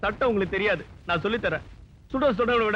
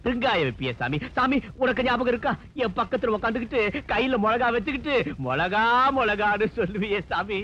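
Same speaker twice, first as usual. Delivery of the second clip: hammed-up mourning wail; theatrical lament. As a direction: draw out the endings like a mourner. Lamenting over supposedly dead companion. (ஒப்பாரி வைக்கும் புலம்பல்)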